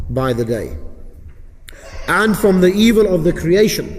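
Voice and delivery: dictation pace with long pauses between phrases; slow repeat reading. Shown as a demonstration. Teacher repeating the supplication so students get it, slow dictation. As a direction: read it out slowly, leaving gaps to follow. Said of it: "I'll read it a bit slowly for you".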